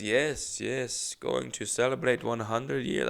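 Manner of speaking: imitated old Russian lady's accent. Old Russian lady going to celebrate, imitated Russian accent. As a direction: mimic her Russian-accented English. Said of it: "Very thick accent".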